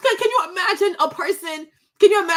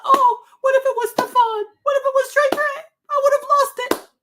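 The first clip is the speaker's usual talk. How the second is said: tearful; 10 semitones higher, 3 dB louder than usual. Real, not acted. Imagining her own children dead.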